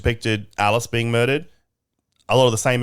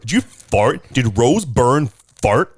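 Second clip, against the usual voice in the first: mild Australian accent; slower than usual. Shown as a demonstration. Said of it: "my version of Rose Byrne's accent".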